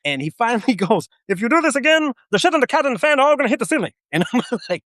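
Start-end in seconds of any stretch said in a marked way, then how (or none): 1.3-3.9 much higher and fast, a cartoonish sergeant; Muppet-like drill sergeant. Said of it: "it's like a fucking Muppet".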